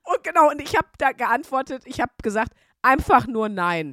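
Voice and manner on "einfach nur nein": loud, slow, emphatic no; emphatic mock refusal; blunt retold refusal. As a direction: refuse loudly, word by word.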